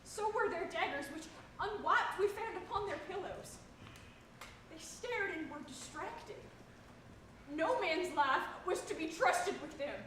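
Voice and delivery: rising, horrified account; agitated outburst. Acted. Agitated report of the murder.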